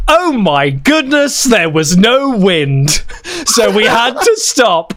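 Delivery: high, slow, overacted drama; cringey schoolboy French. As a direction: ham up the sailing story. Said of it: "said something laughs like".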